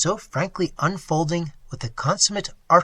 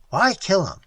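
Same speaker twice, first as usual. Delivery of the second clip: louder, blunt broken English; Indian man voice; 5 semitones higher, 8 dB louder than usual. A narrator's reading. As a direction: speak short and blunt.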